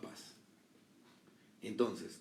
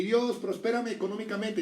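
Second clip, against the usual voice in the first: mock money prayer; 8 semitones higher, 5 dB louder than usual.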